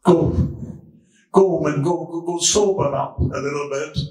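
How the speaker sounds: lightly voiced priest, low and dismissive; gruff priest. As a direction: scold her like a priest who thinks she's drunk. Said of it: "Says, Woman".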